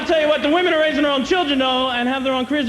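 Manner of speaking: emphatic restart. Shown as a demonstration. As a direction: talk over the hissing audience with gusto. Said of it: "Oh, ho, ho, settle down".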